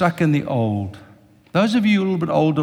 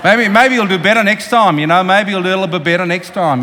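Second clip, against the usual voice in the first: Aussie bluntness; 4 semitones higher, 5 dB louder than usual. Retold or imitated. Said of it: "Aussie, they walk around".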